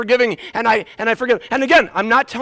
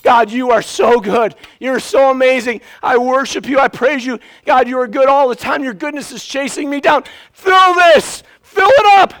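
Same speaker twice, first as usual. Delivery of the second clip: rising from loud praise to shouted plea; building loud praise; 4 semitones higher, 5 dB louder than usual. Acted. Worshipper crying out to God, building to a shout. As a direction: pour it out louder and louder to God. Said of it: "And we're like".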